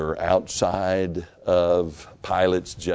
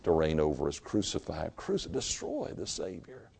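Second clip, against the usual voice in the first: crowd's cry; 2 semitones lower, 8 dB quieter than usual. Acted. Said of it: "cried out to Pilate and said".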